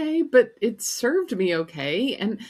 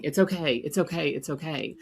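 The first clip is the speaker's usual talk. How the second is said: dismissive reassurance. Retold or imitated. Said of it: "please stop saying".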